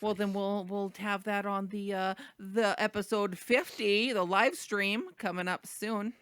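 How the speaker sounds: put-on slow, drawn-out Minnesotan accent. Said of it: "you don't like my Minnesotan accent?".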